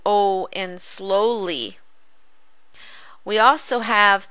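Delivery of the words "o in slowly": "slowly" said slowly, the O stretched long; drawn-out vowel. Shown as a demonstration. Teacher showing the long O to pupils, slow and drawn out. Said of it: "the O".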